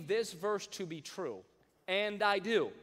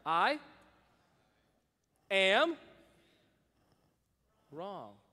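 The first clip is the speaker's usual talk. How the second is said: louder, spaced words; louder repeat; 3 semitones higher, 7 dB louder, much slower than usual. Shown as a demonstration. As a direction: say it again, stronger. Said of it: "let's try one more time".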